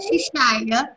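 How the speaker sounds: put-on softly trailing French accent; Marie-Christine. French coquette explaining that she is shy, accented. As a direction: play the coquette, quietly French. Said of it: "She is French".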